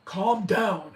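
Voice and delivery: huge being's command. Retold or imitated. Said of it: "he was huge".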